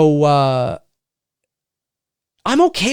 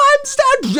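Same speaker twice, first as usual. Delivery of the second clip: mock panic. Voicing Laurie trapped in closet.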